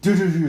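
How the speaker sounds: quick vocal stomps; rhythmic stomp sound effect; imitated stomping. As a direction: mimic feet going downstairs. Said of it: "stomps down the stairs".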